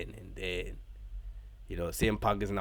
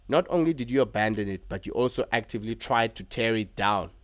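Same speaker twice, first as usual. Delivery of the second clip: a hint of a taunting wrestler, mildly raised; Seth Rollins promo; 4 semitones higher, 6 dB louder than usual. Vlogger retelling Rollins addressing Punk, lightly voiced taunting promo. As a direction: lightly play the cocky champion on the mic. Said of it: "Seth Rollins said".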